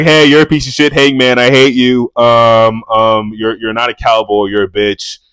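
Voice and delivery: a mock snarling rant at a rival; mock Moxley rant. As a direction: yell it like a furious brawler, half joking. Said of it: "Jon Moxley's like".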